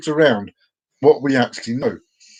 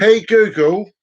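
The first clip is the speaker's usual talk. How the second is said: repeating to voice assistant; 5 semitones higher, 4 dB louder, slower than usual. Real, not acted. Retry wake word.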